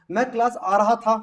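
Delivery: teacher dictating a sentence for translation; clear dictation. Shown as a demonstration. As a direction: call the sentence out clearly to the class. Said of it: "मैं बोलूंगा sentence दो बार बोलूंगा".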